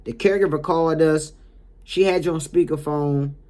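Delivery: re-enacted firm professional confrontation; mildly stern reprimand. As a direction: lay out the facts sternly. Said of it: "in a stern voice like that".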